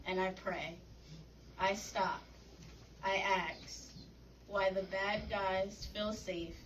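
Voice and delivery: measured spoken-word poem, pausing between phrases; poetry reading. Acted. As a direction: read it as a solemn poem, line by line. Reads last poem aloud.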